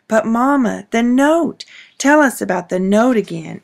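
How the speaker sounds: put-on excited little girl begging; insisting. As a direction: press Mama eagerly for the story. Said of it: "Anna insisted".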